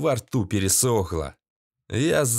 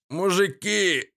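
pleading terror; 6 semitones higher, slower than usual. A narrator's reading. Пленник молит о пощаде.

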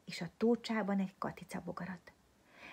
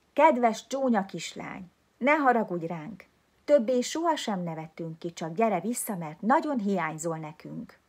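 put-on children's letter; 9 dB louder than usual. A narrator's reading. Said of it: "Ez volt benne".

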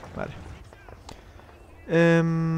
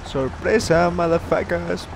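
spring the surprise with glee; gleeful taunt; 4 semitones higher, much slower than usual. Real, not acted. Ambushing enemy in game. (burla eufórica)

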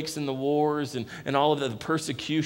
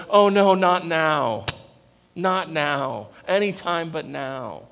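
dismayed cry; 7 dB louder, slower than usual. Retold or imitated. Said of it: "where they're like".

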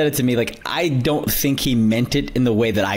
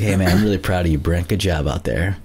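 lower, deliberately condescending praise; mock patronizing mentor; 6 semitones lower than usual. Returning the praise to his mentor, lower mock-condescending tone. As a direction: pay the praise back like a smug elder. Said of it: "I came up to him, I was like".

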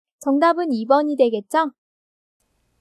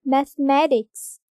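slow mathematics with the stress on the third syllable, math-e-MA-tics; slow teacher demo of mathematics stressed on MA; much slower than usual. Shown as a demonstration. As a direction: say mathematics slowly and lean on MA. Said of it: "mathematics 이런 식으로 삼 음절에 오죠".

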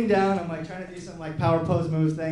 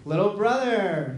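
affectionate greeting; slower than usual. Retold or imitated. Brother's sweet greeting on the phone.

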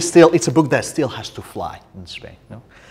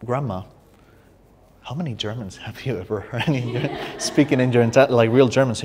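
quoting herself through laughter, getting louder; laughing, incredulous reply to grandma; laughing question; 2 semitones higher, 3 dB louder than usual. Retold or imitated. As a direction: tease grandma while laughing, growing louder at the end. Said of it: "it's like".

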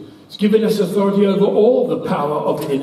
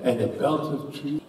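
mock rote prayer; 3 semitones lower, 3 dB quieter than usual. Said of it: "I've heard people pray this".

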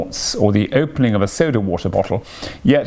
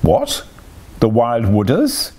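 alarmed cry. A narrator's reading. Toad trembling at news of the Wild Wooders, alarmed. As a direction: leap up in pitch, then gasp the question. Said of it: "cried Toad, trembling in every limb".

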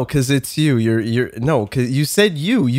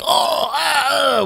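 mock scream; 11 semitones higher than usual. Retelling a convention crowd's screams, mock scream. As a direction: imitate a screaming audience, held back. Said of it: "fucking doing blood-curdling screams".

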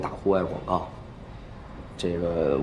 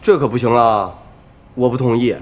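louder, higher protest; firm objection; 4 semitones higher, 6 dB louder than usual. Acted. Objecting to a friend's free-ticket idea, firm protest. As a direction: put your foot down, raised voice.

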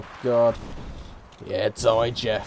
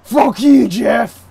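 mock yell; 6 semitones higher, 11 dB louder, much slower than usual. Yelling at rival Jeff.

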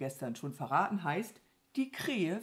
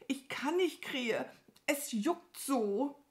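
high cow voice, complaining; squirming Mama Mu; 8 semitones higher, slower than usual. Acted. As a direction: plead as the itchy cow. (klagende, hohe Kuhstimme)

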